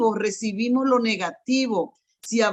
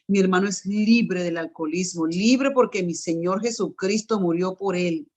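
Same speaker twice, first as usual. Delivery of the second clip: declaring in faith. Retold or imitated. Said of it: "comencé a decir".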